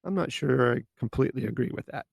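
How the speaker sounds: calm, polite doubt with stress on not; gentle disagreement. Shown as a demonstration. Showing listeners the tactful way to disagree, calm. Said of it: "Much better than".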